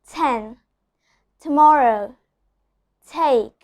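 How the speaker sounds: ten, tomorrow, take with every T crisp and aspirated; strong clear T. Shown as a demonstration. Teacher demonstrating a strong initial T. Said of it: "a very strong and a very clear T".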